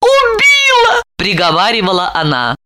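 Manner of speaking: high wailing lament; high tearful wailing; sobbing. A narrator's reading. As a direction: wail through tears. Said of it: "разрыдалась".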